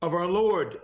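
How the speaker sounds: high-pitched, halting cry of awe; awestruck proclamation. Acted. Visionary telling companions of the holy figure, awestruck.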